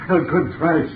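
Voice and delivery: laughing. Acted. Doctor laughs.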